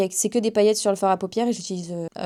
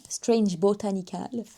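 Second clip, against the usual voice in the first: slow, careful French-accented English for "Strange Botanical"; clumsy English accent; 4 dB quieter, slower than usual. Real, not acted. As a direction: sound out the English brand name in a weak French accent. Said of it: "mon accent est nul".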